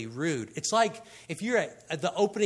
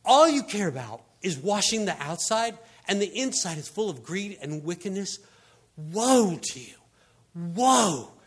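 acted scolding, louder opening and loud woes; going off; 2 semitones higher, 5 dB louder than usual. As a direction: lay into them, hitting each "Woe" hard. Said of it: "he kind of went off on 'em".

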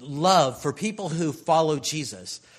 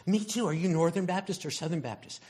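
excited; 4 semitones higher, faster than usual. Acted. Excited believer questioning a stranger.

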